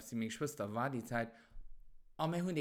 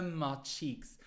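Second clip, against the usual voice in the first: slowed right down, word by word; slow clear repeat; much slower than usual. Shown as a demonstration. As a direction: repeat it slowly so they get it.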